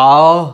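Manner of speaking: আহ pushed out loud as a breath from deep in the throat; breathy throat h. Shown as a demonstration. Teacher shows students the throaty breath of হ. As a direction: let the air rush out from the throat on আহ. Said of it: "ওটা একদম গলার দেখো ভিতর থেকে".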